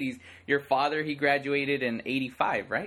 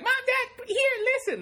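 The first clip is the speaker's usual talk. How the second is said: high-pitched mock kid calling parents; hammed-up, excited pleading for attention; imitating pestering daughter. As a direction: call out like an over-eager child. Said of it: "you're gonna be like".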